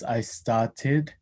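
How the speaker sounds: started with no R, New Zealand style; New Zealand accent. Shown as a demonstration. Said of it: "he says".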